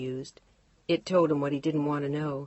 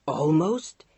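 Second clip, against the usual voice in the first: louder, rising "Almost?"; shouted echo; 5 dB louder than usual. Acted. Mark shouting her word back at Chantal, exasperated. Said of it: "He shouted the word".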